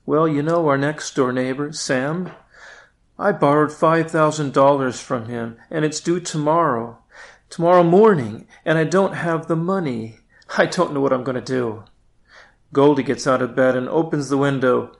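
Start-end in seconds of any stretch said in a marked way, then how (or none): 0.0-11.8 worried husband. Acted. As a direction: fret over the debt, speed up at the end. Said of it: "Melvin replies".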